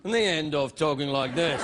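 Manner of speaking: dropped low English presenter cadence; English TV presenter ending. Shown as a demonstration. Host mocking British TV presenters, sentence ending pitched low. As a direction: let the presenter voice sink low. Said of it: "talk like an English television presenter".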